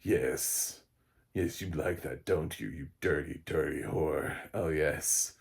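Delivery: a hint of a creepy purring plant; lightly voiced leering parasite; mock seductive plant voice; sleazy plant creature.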